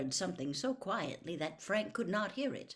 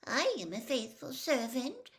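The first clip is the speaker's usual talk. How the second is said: sullen; 8 semitones higher than usual. A narrator's reading. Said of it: "the merest trace of sullenness in his voice".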